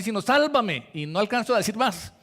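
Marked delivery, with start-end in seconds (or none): 0.2-0.9 high, loud desperate cry; Peter's cry for help. Retold or imitated. Preacher voicing Peter sinking in the sea, desperate loud cry. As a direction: cry out like a man going under. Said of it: "solo no alcanza uno a decir".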